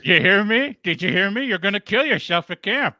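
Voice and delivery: mock stern father. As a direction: press the point like a hectoring dad. Acting out the letter writer's dad.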